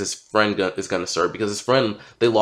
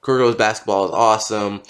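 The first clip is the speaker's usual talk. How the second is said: talking around a dental retainer; wearing a retainer. Real, not acted. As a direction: speak with a retainer in. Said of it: "I have my retainer in".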